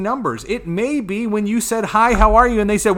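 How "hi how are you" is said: bright greeting. Retold or imitated. Salesman greeting a customer.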